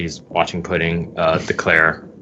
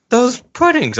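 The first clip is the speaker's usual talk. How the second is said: Sanji voice; 5 dB louder than usual. Pretend. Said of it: "Now you could do the voice".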